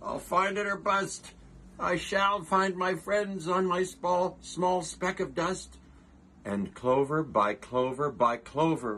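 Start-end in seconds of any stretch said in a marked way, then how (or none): 0.0-5.8 higher, determined elephant voice; higher voiced Horton promising his friends; Horton's vow. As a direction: swear it like a stubborn hero. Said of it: "cried Horton".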